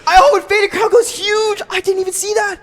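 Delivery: high shouted disbelief; yelling. Real, not acted. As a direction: yell in shocked hype. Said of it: "Sorry for yelling".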